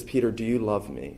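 softly voiced, tender question; gentle. Preacher voicing Jesus restoring Peter, gently. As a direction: ask it gently, a little hushed. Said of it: "he does it in gentleness".

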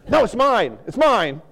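high, loud possessive crab; possessive whining. Acted. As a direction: clutch it and whine mine. Crab grabbing chicken bait.

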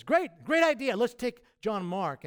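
bright, eager high voice for Barnabas; voicing Barnabas, the eager cousin-backer. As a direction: pitch it up, all enthusiasm. Barnabas voiced in retold dispute.

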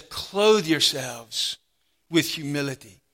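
"clothe yourselves with humility" stretched out slowly, each word weighted; slow emphatic reading. Shown as a demonstration. Preacher lingering over the command to the congregation, slow and weighty. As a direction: let "clothe" land slowly and heavily. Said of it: "All of you," he says".

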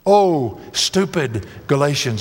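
exasperated sigh of address, drawn out; mildly exasperated, slowing as it lands. Acted. Preacher voices Paul at the end of himself, exasperated. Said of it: "They've exasperated him".

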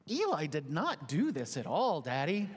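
a lightly voiced stuffed puppy, close to his own voice; a dad lightly playing his son's toy puppy; boy's puppy vouching for him, lightly voiced; Runner's voice. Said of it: "in Runner's voice".

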